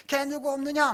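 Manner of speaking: high, loud call for servants; mock shout. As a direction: cry out for someone to come. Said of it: "소리를 질러야죠".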